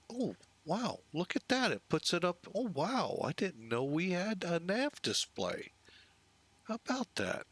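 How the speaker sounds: high, amazed oh wow; genuinely wowed by a new toy; awed sigh. Real, not acted. Discovers a nav display.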